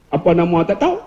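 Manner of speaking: Kedah question with a rise on "tahu"; Kedah dialect. Retold or imitated. Ustaz quoting how Kedah people ask, imitated Kedah dialect. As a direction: lift the end, Kedah-style, on "tak tahu". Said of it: "Orang Kedah".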